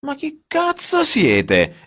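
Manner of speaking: sudden furious shout, high and loud; furious yell, drawn out and slow; exploding outburst. A narrator's reading. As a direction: blow up at them, yelling. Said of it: "esplose all'improvviso Giorgio".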